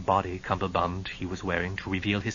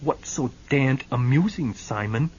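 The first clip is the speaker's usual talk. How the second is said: icily; 4 semitones higher, 5 dB louder than usual. Acted. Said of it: "said icily".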